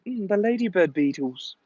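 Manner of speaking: mock Scouse with stretched vowels; Liverpool accent. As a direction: put on a hammed-up Liverpool accent. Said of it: "impression of a Liverpool accent".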